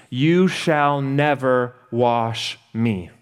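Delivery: slow, emphatic refusal, a touch indignant; drawn-out protest, half acted; slow indignant refusal, lightly voiced; Peter exclaiming. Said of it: "Peter exclaims".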